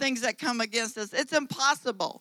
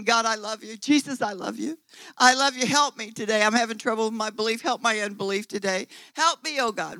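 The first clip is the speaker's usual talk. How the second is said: simple heartfelt prayer. Pretend. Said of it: "if you can't say anything".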